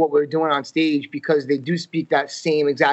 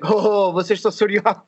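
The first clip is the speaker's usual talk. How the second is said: mock actor's voice; 5 semitones higher than usual. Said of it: "And he's like".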